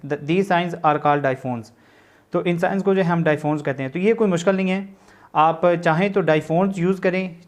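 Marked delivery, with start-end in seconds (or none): 0.1-1.7 word by word, spelled out slowly for notes; slow classroom dictation of a definition. Shown as a demonstration. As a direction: dictate it so students can write along.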